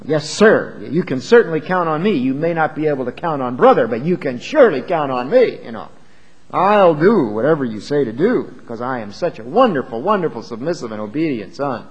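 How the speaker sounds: hammed-up sucking-up son; exaggerated fawning. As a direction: lay the obedience on thick. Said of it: "almost exaggerated".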